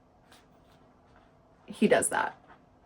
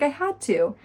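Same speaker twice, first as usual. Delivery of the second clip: mildly acted frightened excuse, higher; scared; 5 semitones higher than usual. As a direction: imitate someone scared defending herself. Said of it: "she's scared".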